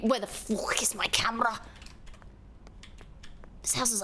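hushed whispered curse; whispering. Real, not acted. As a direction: whisper it frustrated. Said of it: "repeat whispered".

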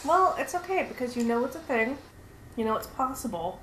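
talking through a bite of cupcake; words round a mouthful; mouth full. Real, not acted. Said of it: "talking with my mouth full".

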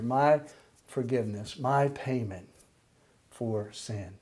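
leading a prayer. Shown as a demonstration. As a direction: pray it sincerely so listeners can repeat it. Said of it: "Copy me. Pray with me".

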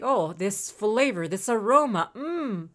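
slow mock relishing of a smell; mock savoring. Player mimicking Rowan over his parcel, mock savoring. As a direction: lightly imitate a gourmet savoring each word. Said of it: "then he's like".

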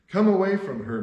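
high, loud commanding call; voice from heaven. A narrator's reading. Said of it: "heard another voice from heaven say".

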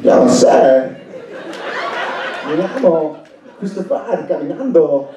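lightly voiced Walken speaking Spanish; a hint of Walken's odd phrasing, in Spanish; Christopher Walken in Spanish. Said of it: "this is Christopher Walken".

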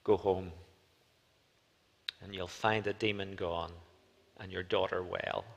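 soft, gentle and smiling; tender words of release to a mother; warm and joyful. Retold or imitated. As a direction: speak it kindly, with a smile in the voice. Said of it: "with a warm and joyful smile Jesus says".

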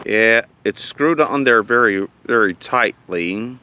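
talking around cigar tip; cigar in mouth. Real, not acted. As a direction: lips closed on cigar. Seen 3: Cigar's white tip held between lips throughout the labelled words.

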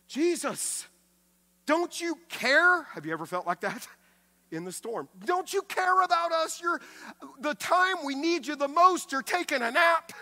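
high, loud panicked plea to Jesus; desperate cry. Acted. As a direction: cry out like men about to drown. Disciples cry out in storm.

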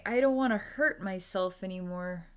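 plain-level heartfelt plea; pleading. Retold or imitated. Voicing the hurting self, an earnest plea. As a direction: say it like a first realisation. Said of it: "And you're saying".

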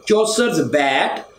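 put-on Chaucer's word bat said slowly, the old way; Chaucer's pronunciation. Shown as a demonstration. Teacher shows Chaucer's old spoken form, carefully. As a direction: sound out bat as Chaucer would. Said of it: "in modern English it is bade".

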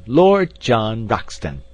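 loud, slow, drawn-out summons; shouting. A narrator's reading. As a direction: call the full name across a chasm. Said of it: "he shouted".

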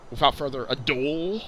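mock Louisville accent on a rising sign-off. Shown as a demonstration. Narrator moving on to the next location, mock Louisville accent. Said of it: "to say in the Louisville accent".

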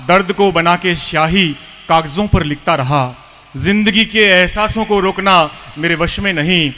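phrased verse with pauses between halves; poem recitation. Acted. Host honouring the poet with four lines, reciting. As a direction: recite each half-line deliberately, then pause.

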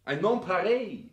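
loud and high, carried away by the view; rapturous praise. Acted. Son enthusing to his father about the Swiss Alps, rapturous. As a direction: sell the wonder of it with a swelling voice.

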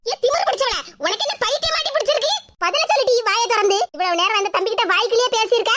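tearing into her daughter for answers; furious scolding. Acted. Mother berates silent daughter. (கோபமான திட்டு)

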